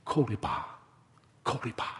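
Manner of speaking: soft, hushed secret word; softly spoken into someone's ear; narrated whisper. A narrator's reading. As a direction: drop to a near whisper, pausing between. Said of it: "he bends down and he whispers".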